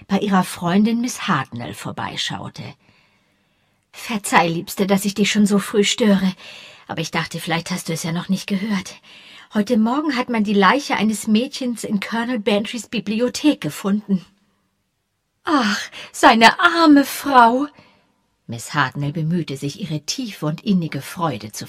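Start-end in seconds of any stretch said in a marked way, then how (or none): 3.9-14.2 lightly voiced sour old spinster, eager; a hint of a sour old maid gossiping. 15.4-17.7 put-on high, slow, loud old-lady sigh of pity; hammed-up sympathy from a spinster; mock pity.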